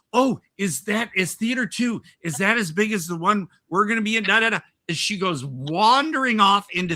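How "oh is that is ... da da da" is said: dotty woman. Retold or imitated. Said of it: "And then she goes".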